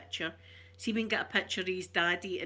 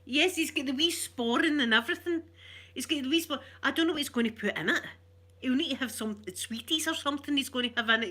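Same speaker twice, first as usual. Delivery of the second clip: excited; 6 semitones higher, 4 dB louder than usual. Real, not acted. Gushing about the baby's outfit.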